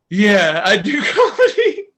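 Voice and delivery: high, loud retold answer through laughter; breaking into laughter. Comedian answering a relative at the wake, laughing. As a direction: crack up halfway through the answer.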